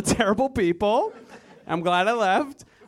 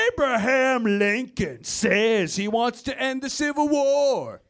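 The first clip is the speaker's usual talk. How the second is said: scary political ad. Retold or imitated. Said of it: "scary as shit political ads".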